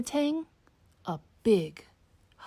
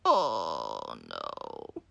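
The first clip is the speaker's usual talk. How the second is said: groan; 7 dB quieter than usual. Acted.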